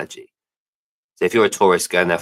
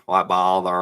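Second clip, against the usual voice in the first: posh British accent. Shown as a demonstration. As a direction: say "why bother?" like a posh Englishman. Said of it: "What would you say?".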